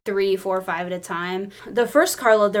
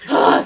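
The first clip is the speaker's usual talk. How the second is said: big, loud exasperated sigh; loud, hammed-up sigh; dramatic sigh; 3 semitones lower, 7 dB louder than usual. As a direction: heave a huge theatrical sigh. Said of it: "big dramatic sigh".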